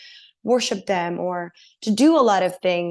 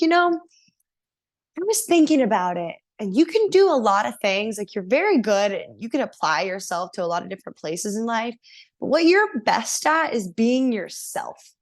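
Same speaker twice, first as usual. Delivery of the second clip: put-on French Indian accent; 2 semitones higher than usual. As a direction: play the god sister in a French Indian accent. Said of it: "she's this amazing French Indian accent".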